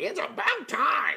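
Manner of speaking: very high-pitched, raspy, rough little goblin voice. Voicing a goblin sitting on a ship, greeting the party: goblin character line. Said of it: "and he's like".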